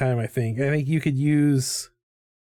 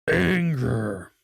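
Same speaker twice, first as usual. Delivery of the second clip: ordinary delivery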